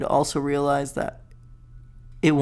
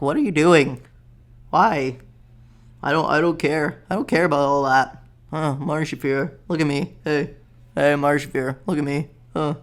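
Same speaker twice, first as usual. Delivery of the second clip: a lightly voiced, louder Ari Shaffir; Ari Shaffir impression; 4 dB louder than usual. Vlogger doing his Ari Shaffir bit for viewers, louder and lightly voiced. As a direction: needle them the way Ari Shaffir would, louder. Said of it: "I can do a good Ari Shaffir".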